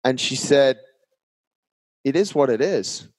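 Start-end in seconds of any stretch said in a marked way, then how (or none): 2.0-3.1 straight, calm retold reply after a long pause. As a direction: say it plainly and very calmly. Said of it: "very straight and very calm".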